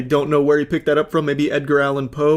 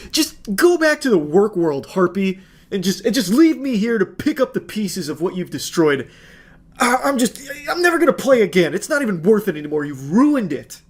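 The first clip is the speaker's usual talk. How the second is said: higher, whiny mock sulk, speeding up; hammed-up boyfriend quote; 4 semitones higher than usual. Narrator reads the sulking boyfriend's quote as a mock whine. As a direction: read his tantrum as a hammed-up whine.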